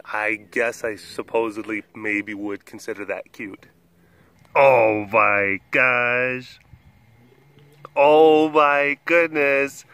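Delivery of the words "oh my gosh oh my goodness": gushing awe. Real, not acted. Gushing over the pet.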